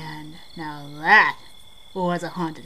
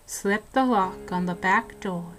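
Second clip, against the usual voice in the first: hushed ghost-story telling, dropping to whispers; eerie storyteller voice, sinking into whispers at the grim parts; spooky story narration; 4 dB quieter than usual. Acted. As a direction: tell it like a campfire ghost story. Spooky ghost story told to friend.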